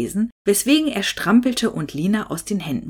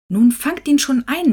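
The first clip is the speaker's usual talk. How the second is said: higher, louder scolding grandma; grumbling; 8 semitones higher, 6 dB louder than usual. A narrator's reading. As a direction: snap at them to catch the dog. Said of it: "meckerte sie Hinnerk und Lina an". (laute, höhere Schimpferei)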